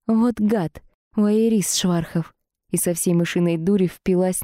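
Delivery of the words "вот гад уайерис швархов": cry out. Acted. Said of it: "Я вскрикнула".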